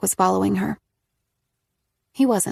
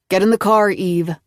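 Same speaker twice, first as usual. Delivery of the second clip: glowering; 5 dB louder than usual. A narrator's reading. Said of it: "Nick glowered".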